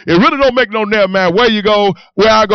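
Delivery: acting out brash certainty; retold cocky declaration; bold insistence. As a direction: push it out firmly, brooking no argument. Retold defiant boast to prison counselor.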